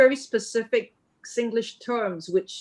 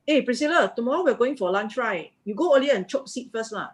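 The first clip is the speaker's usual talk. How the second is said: casual Singlish, lightly sing-song; chatty Singlish with a final lah; 3 semitones higher than usual. Shown as a demonstration. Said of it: "if I speak to Priscilla in Singlish".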